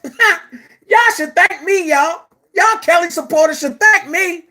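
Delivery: Hollywood Next voice. Retold or imitated. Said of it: "in my Hollywood Next voice".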